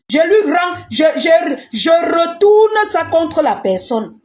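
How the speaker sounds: forceful declaration. Real, not acted. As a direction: throw it back at them with force. Returning curses to enemies.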